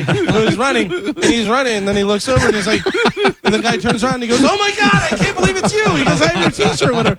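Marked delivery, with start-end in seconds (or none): 4.4-5.8 high, laughing "oh my God" of a starstruck fan; amazed fan. Retold or imitated. Prankster to jogger, starstruck and laughing. Runner sees his own T-shirt. 6.2-6.9 high, gushing fan voice; starstruck fan. Retold or imitated. Prankster to jogger, high and gushing. Runner sees his own T-shirt.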